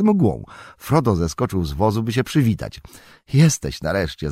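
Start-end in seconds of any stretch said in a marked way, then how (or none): 3.3-4.3 calling out. Acted. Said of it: "zawołał Mary".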